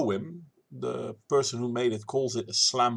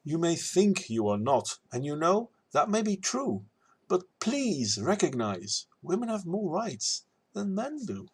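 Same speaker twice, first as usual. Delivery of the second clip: lilting rhymed rebuttal; verse recital; 5 semitones higher than usual. Acted.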